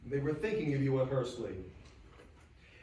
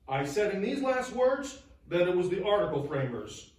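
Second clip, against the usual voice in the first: firm, emphatic insistence, pitched higher; a writer insisting he meant every word; 4 semitones higher, 3 dB louder than usual. Acted. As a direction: press each point home with conviction. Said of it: "Newman wrote emphatically".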